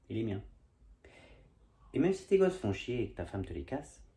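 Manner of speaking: spoken verse, softening as it goes; measured poem lines trailing to a hush; poem recitation. Acted. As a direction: recite gently, phrase by phrase. Recites own comic poem.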